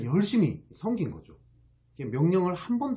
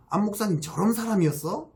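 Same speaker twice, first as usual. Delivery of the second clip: mock shocked gasp; 7 semitones higher than usual. Congregation shocked at pastor's thoughts.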